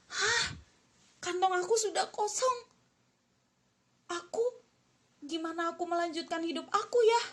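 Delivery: high, startled gasp at an empty pocket; shocked son. Acted. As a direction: panic as the money runs out. Son finds purse empty.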